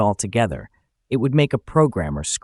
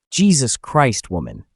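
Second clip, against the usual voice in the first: near shout; 3 semitones higher than usual. Acted. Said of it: "I practically shouted".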